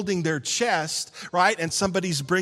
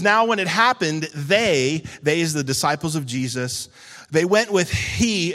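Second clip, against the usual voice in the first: scripture reading. Acted.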